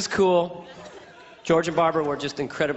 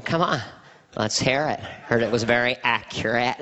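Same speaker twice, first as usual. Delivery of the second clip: exaggerated presidential voice; folksy president coaxing a guest; comic send-up of a president; George Bush impression; 5 semitones lower than usual. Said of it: "My George Bush impression was".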